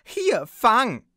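loud, high toss call. Acted. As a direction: call it across to him. Tossing the bottle to Faust.

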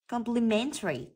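Complimentary with stress on MEN; stress on third syllable. Shown as a demonstration. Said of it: "Trọng âm rơi vào âm thứ ba". (nhấn âm thứ ba "men" trong Complimentary)

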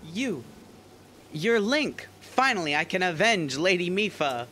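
hammy accusing warrior voice; Zora guard Segan. Acted. Segan voiced in game dialogue.

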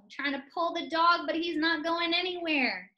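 high mock strain; mock struggle. Shown as a demonstration. Teacher acting out tugging the dog, mock strain. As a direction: sound like you're tugging a dog. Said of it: "listen as I do the chant first".

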